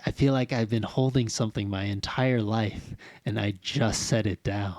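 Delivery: a soft, low, hushed alien voice letting go; hushed alien relief. Retold or imitated. Retelling the alien's line to his co-host, hushed and low. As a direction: breathe it out like a weight is finally off your chest.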